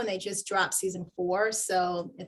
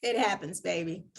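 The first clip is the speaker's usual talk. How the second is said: calm mentor voice; 2 semitones lower, 5 dB quieter than usual. Retold or imitated. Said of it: "He was like".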